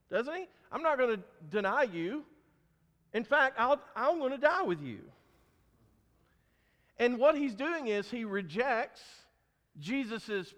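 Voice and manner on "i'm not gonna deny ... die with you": insistent vow, building louder and higher; emphatic. Retold or imitated. Peter upping the ante to Jesus, emphatic. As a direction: up the ante as you promise. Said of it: "he ups the ante".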